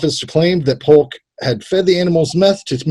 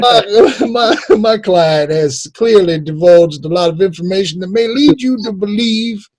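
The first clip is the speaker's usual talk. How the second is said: higher, grandstanding courtroom voice; mock lawyer; 4 semitones higher than usual. Imagined lawyer pleading to the court in a mock orator voice. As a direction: argue to the jury like a pompous lawyer. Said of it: "that's how his lawyer sounds".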